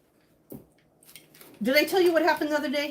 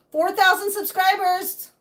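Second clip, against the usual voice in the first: drawn out; 7 semitones higher, 5 dB louder, slower than usual. Acted. Pleading for subscriber goal.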